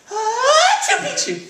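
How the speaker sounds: very high, loud mock sneeze; explosive cartoon sneeze-word; half-sneezed password. A narrator's reading. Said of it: "half sneezed, half spoke the secret password".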